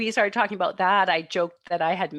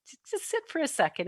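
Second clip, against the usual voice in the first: higher, quick, gentle invitation; retold tender reassurance; gentle coaxing; 8 semitones higher, 4 dB quieter, faster than usual. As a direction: softly coax an upset colleague. Retold comforting of upset colleague.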